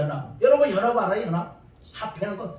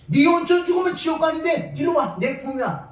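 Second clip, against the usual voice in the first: voicing Jesus inviting; 4 semitones higher than usual. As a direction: plead with the sinner to come close. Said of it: "예수님 또 뭐라고".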